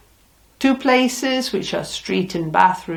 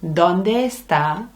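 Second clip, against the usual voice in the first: slow model phrase; slower than usual. Shown as a demonstration. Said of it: "talking about where something is".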